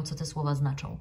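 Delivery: ordinary delivery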